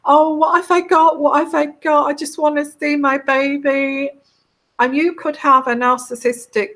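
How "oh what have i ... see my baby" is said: high, pleading mock sob, voice up high; imitating a crying new mother. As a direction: play a tearful new mother begging for her baby. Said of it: "she's crying and she's like".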